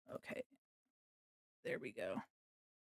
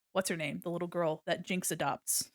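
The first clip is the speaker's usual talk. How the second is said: ordinary talk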